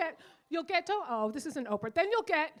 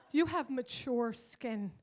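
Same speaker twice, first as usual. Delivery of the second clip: slow condescending; 2 semitones lower, much slower than usual. Retold or imitated. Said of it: "she was like".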